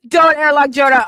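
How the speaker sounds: loud, half-crying through laughter; laughing and begging mods; laughing plea. Real, not acted. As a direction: plead while laughing.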